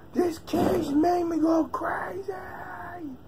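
high, slow whispered hamster voice; squeaky pet voice, breathless and frantic. Retold or imitated. Owner voicing his hyped hamster, high and whispery. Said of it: "He's like".

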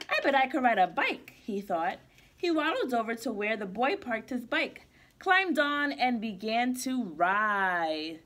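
put-on lively storybook read-aloud for kids; reading to children. Teacher reading a picture book to kids, bright and lively. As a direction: read it like circle time with little ones.

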